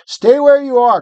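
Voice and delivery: high loud cry; shouting. A narrator's reading. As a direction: cry out to stop her. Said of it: "cried Diggory".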